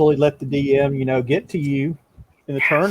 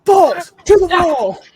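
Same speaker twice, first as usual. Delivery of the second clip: high, slow, drawn-out holler; demonstrated yell; 6 dB louder, slower than usual. Acted. Game master showing players how the yell sounds, high drawn-out shout. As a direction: bellow it like a comic war cry. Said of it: "Sounds like that".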